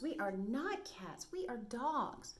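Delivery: dogs insisting. Acted. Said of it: "said the five little dogs".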